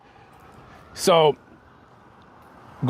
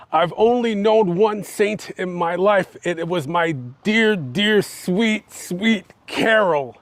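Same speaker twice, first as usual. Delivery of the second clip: higher, slowed-down mourning; mock sobbing; 4 semitones higher, slower than usual. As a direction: act out a tearful husband, understated. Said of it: "he's sobbing".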